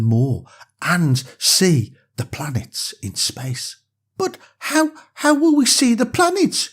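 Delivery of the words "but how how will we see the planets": put-on high, hesitant scared little girl; stammered. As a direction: ask nervously, a touch scared. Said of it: "she stammered".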